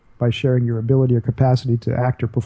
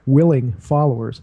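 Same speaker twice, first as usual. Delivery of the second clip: WILLING drawn out for emphasis; deliberate weight on willing; stress on WILLING. Shown as a demonstration. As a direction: lean slowly on the word willing. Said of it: "emphasis on the word willing".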